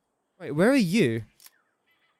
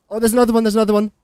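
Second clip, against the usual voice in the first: louder, higher alarmed call; alarmed excitement; 5 semitones higher, 6 dB louder, much faster than usual. Real, not acted. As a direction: warn that another is coming. Spotting another attacker.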